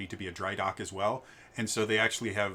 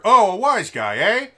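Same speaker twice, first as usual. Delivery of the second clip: higher, louder gangster-ish quip; kenku mimicry; 11 semitones higher, 14 dB louder than usual. Kenku repairers echoing a voice, higher and louder. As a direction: toss it like a wise-guy parrot.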